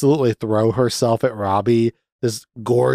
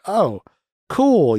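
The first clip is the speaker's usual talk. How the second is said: mock sarcasm; 8 semitones higher than usual. Robbie reacting to Glenn.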